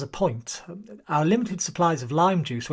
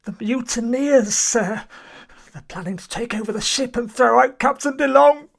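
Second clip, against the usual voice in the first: higher, urgent frightened warning; 5 semitones higher, 3 dB louder than usual. Acted. Paranoid seaman warning the chief, frightened and urgent. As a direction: blurt out the plot in a panic. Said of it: "Calm down, Ericsson".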